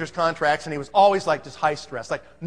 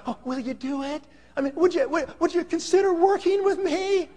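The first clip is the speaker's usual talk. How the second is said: high-pitched, hesitant begging; mock pleading; 11 semitones higher than usual. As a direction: beg in a high, hammed-up, stammering voice. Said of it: "I don't talk like that to people".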